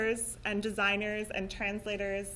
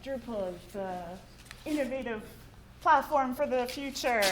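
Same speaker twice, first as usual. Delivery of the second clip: marketing voice; 2 semitones higher than usual. Pretend. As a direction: sell it like a big promo. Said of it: "I'm put on my marketing voice".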